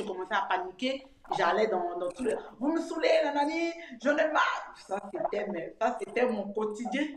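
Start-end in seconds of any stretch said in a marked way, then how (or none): 2.6-4.7 higher, half-hearted imitation of her old yelling; a touch of exasperated shouting at the kids; mock exasperated yell. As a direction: replay the fed-up mum, lightly. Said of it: "je suis une maman qui criait beaucoup".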